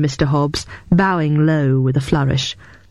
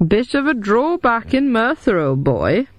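smiling; 7 semitones higher than usual. A narrator's reading. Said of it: "said Acheron, smiling".

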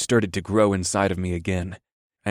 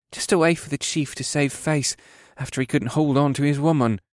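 higher-voiced, dismissive young soldier; moody scoff; 6 semitones higher than usual. A narrator's reading. Young soldier mocking his chief by the fire, scoffing. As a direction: sneer at the chief's excuse. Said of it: "the youngest soldier scoffed as he stared moodily".

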